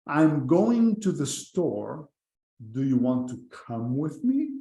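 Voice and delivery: slow, careful English example; slow demo reading. Shown as a demonstration. Teacher reading slowly to students. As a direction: read it slowly for the learners.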